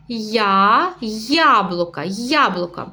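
first sound "я" split off, then "яблука" said whole; stress the first sound. Shown as a demonstration. Teacher to parents, showing how to stress the first sound. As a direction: lean on the opening "я" of "яблука". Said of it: "Ми даємо такий наголос, да, на перший звук".

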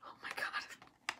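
breathless slow whisper of dread; scared whisper. Real, not acted. Vlogger whispering in fear before waxing her legs. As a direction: whisper it, frozen with nerves.

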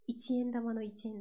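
一円 lifted slightly, Fukuoka-style; Fukuoka intonation. Shown as a demonstration. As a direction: say 一円 with the Kyushu lift. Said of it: "ちょっと上がるところが多いんですよね".

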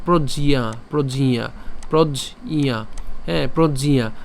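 "প্রজ্ঞিয়া" as prod-ji-ya; split-conjunct pronunciation. Shown as a demonstration. Teacher breaking the conjunct, careful "প্রজ্ঞিয়া". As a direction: sound the j and the i-ya separately in "প্রজ্ঞিয়া". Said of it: "এটা যদি উচ্চারণ করি".

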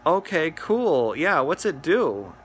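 slow, innocent "okay, cool"; mock clueless customer; playing dumb. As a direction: act totally naive, drawing it out. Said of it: "not gonna let him know that I'm on to him".

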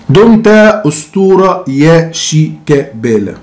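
slow, mock-reverent farewell; mock solemn. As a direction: hail him with fake awe. Mock tribute to Shikabala.

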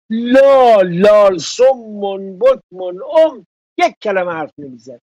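lال shouted high, then slow scornful list; scornful mockery. Real, not acted. Mocking Khatami's nephew for never speaking, scornful. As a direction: spit out the insult.

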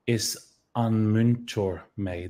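"Is an Muintor me" said slowly and carefully; slow wrong form. Shown as a demonstration. Teacher showing an incorrect Irish phrase, slow. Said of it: "but we don't say".

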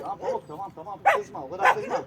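high, coaxing voice to calm a dog. Real, not acted. Owner calming angry dog Pamuk, high coaxing. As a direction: hush the dog gently but high.

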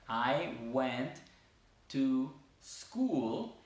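"I went to school" spoken word by word, no E before school; careful teacher's demo, clean "sss-cool"; linked S. Shown as a demonstration. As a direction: slide "to" into the S of school. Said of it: "al final de la palabra anterior".

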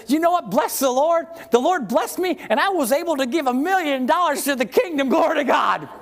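hammed-up boasting testimony; mock proud testifier. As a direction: play a braggy church member. Pastor mimics boastful testimony.

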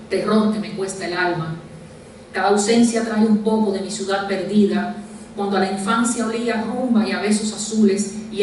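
measured poem reading, pausing after each verse; deliberate literary delivery with falling line endings; poetry recitation. Acted. Recites own poem aloud.

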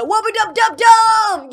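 Rick and Morty catchphrase. Retold or imitated. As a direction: belt it like the cartoon catchphrase. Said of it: "from Rick and Morty".

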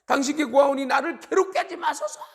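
high, loud possessed man crying out; high-pitched pleading outcry; loud demon's cry. Acted. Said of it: "큰 소리로 이야기하는 거예요".

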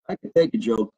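low, dropped-down deadpan delivery; deadpan repeat. Real, not acted. Comedian insisting to a teasing viewer, low and deadpan. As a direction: drop the pitch and state it soberly.

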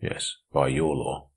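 slow, weighty reply; significantly. A narrator's reading. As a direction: let each word land with meaning. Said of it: "replied significantly".

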